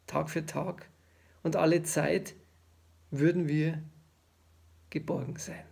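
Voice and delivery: measured reading of a love poem, with pauses; love poem recitation. Acted. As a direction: recite it to your wife, phrase by phrase. Reads love poem for wife.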